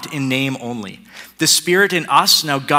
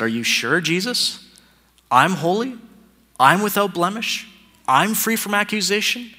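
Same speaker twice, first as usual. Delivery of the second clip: mock incredulous questions, pitch climbing higher; doubtful disbelief; 4 semitones higher than usual. The believer doubting Jesus's words, in mock disbelief. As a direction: ask it like you can't believe it's true. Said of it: "And as Phil said".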